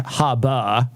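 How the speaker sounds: slow "harbor", Maine style, open first vowel; drawn-out Maine "harbor"; Maine accent. Shown as a demonstration. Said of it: "They say the one at the end".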